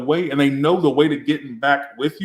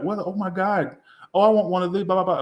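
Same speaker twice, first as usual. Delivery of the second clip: excited onlookers; 6 semitones higher than usual. Retold or imitated. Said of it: "Everybody was like".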